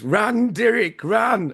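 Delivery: high, drawn-out mock Kiwi accent; shonky Kiwi accent. Podcaster quoting Bad Taste to co-hosts, high hammed-up Kiwi accent. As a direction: imitate a film line in a bad New Zealand accent. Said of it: "Sorry about the shonky Kiwi accent".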